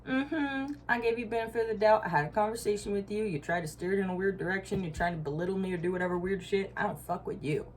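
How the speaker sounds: high, fast, sassy dismissal; sassy brush-off. Retold or imitated. To someone feeding her bullshit, sassy high brush-off. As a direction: tell them off with attitude, quick and high. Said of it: "and you'd be like".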